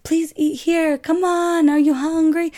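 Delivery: high-pitched, coaxing Italian restaurant host; mock Italian tout, high and insistent; typical Italian man. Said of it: "typical Italian man, comes out".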